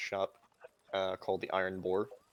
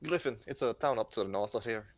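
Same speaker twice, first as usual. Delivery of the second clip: put-on Irish accent; 2 semitones higher than usual. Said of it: "sorry for my Irish accent".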